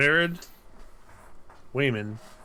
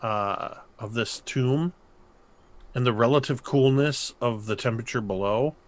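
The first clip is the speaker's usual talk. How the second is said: game master narration. Acted. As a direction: draw them into the dread. GM describes dread slowly.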